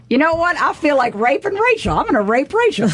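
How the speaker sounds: mocking friend voice. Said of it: "he goes".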